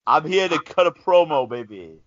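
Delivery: wrestling promo. Retold or imitated. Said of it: "Could you go give us the plugs".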